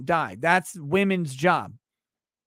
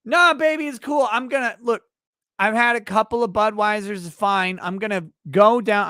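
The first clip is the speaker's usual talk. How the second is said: cocky husband; 3 semitones higher than usual. Retold or imitated. Man voiced reassuring wife.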